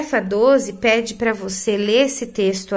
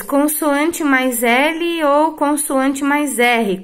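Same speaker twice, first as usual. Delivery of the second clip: dictated slowly for note-taking; slow teaching rule; 3 semitones higher, much slower than usual. Shown as a demonstration. (regra ditada devagar)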